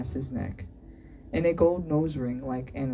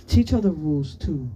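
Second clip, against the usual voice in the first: mildly irritated order, louder at the start; annoyed; 6 dB louder than usual. A narrator's reading. Annoyed teacher telling a student to explain the rules, irritated. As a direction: instruct with a touch of annoyance.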